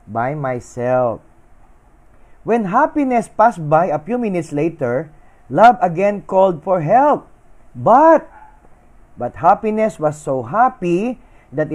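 lively fable read aloud to an audience; narrating a moral tale to listeners, animated; story narration. Acted.

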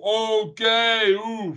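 high mock camp squeal; mock the old gay joke, high and camp. Mocking the outdated Friends gay joke, high camp squeal.

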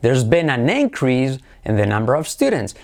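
INcrease as a noun within the sentence; stress on first syllable. Shown as a demonstration. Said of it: "acentuamos la primera". (increase con acento en la primera sílaba)

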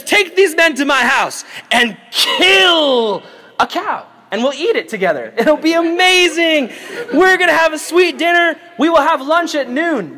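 high, hammed-up feast announcement; excited proclamation. Joseph orders a dinner for his brothers, excited proclamation. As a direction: proclaim it grandly, stretching the big words.

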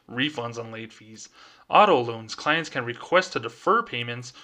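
a light mock-professional banker read. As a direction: read it like a stiff corporate letter, only lightly put on. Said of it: "back to my banker voice".

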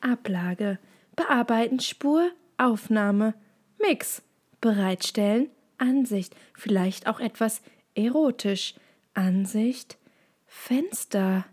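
sanft nachgemachte Vorlesestimme, Wort für Wort; sanfte Vorlesestimme imitierend. Retold or imitated. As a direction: lies die Menüwörter betont sanft vor. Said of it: "du bist sanfter, sanft". (sanfte, imitierte Vorlesestimme)

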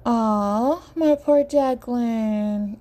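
slow tender coo; drawn-out, fussing sympathy. Acted. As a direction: coo it like soothing a hurt child. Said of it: "emoji coos".

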